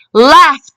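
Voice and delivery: "Laughed" ending in a crisp t; final t sound. Shown as a demonstration. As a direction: say "Laughed" with the ed as a separate, audible t. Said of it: "listen to the t sound".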